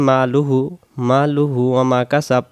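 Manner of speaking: "মালুহু ওয়া মা" with short vowels, no stretch; "মালুহু ওয়া মা" run through without elongation; hurried recitation. Shown as a demonstration. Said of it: "এটাও যদি তাড়াতাড়ি পড়ি".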